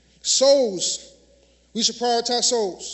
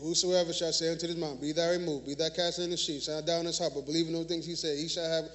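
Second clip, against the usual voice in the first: weary mock God; 6 semitones lower, 5 dB quieter, faster than usual. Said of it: "It doesn't make him like".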